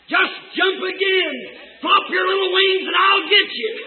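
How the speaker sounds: high, excited call; hollered encouragement. Acted. Mother eagle coaxing eaglet to leap, hollered encouragement. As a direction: urge them on from above at the top of the voice.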